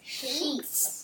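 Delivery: slurred around a lollipop; mouth full. Real, not acted. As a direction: say it with a sucker in mouth. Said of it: "it's hard to say with that sucker in your mouth".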